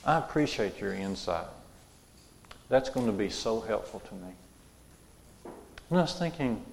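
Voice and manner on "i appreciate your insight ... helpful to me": soft, calm and gracious; calm reply. Retold or imitated. Mister Rogers calmly thanking a critic, soft and gracious. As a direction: answer the critic with quiet calm. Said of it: "he would sit there very calmly and say".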